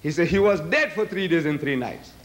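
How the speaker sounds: ordinary talk, nothing marked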